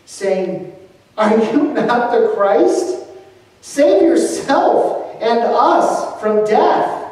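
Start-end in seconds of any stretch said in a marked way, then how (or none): 1.2-7.0 higher, louder abusive jeer; hurling abuse. A narrator's reading. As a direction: spit the words at him, slow at the end. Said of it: "kept hurling abuse at him".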